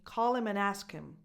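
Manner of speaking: "call" and "ask" stressed, each "him" reduced to "im"; no H on either "him", stress on the verbs; dropped H. Shown as a demonstration. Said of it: "No H sounds".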